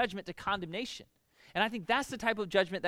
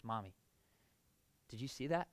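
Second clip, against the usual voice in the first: put-on child upset; 8 semitones lower, 9 dB quieter than usual. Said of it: "he goes".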